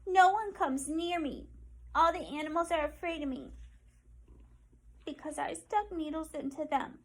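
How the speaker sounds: Penny asking for help, hurt and hopeful; pleading porcupine. Acted. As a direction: plead your loneliness like a small creature.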